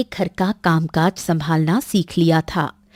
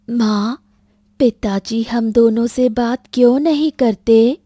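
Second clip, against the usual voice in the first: lightly voiced puzzled child; child asking her mother, a little plaintive; young daughter; 3 semitones higher than usual. (मासूम बच्ची का सवाल)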